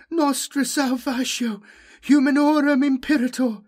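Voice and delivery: high, very loud incantation howl; howled prayer. A narrator's reading. Jomi hurls the prayer at the demon, howling. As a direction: howl the holy words at full force. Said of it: "recalled Farb's prayers and howled".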